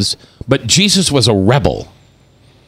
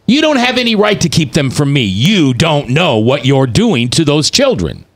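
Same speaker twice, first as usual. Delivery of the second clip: blunt casual Jesus; 3 semitones higher than usual. Retold or imitated. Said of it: "How do you know he wasn't saying".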